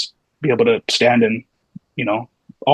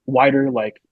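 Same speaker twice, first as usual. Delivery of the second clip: retold question, pitched up at first; puzzled questioning; 3 semitones higher than usual. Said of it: "I remember I was like".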